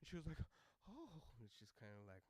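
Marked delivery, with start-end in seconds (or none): 0.9-1.2 flustered lady. Retold or imitated.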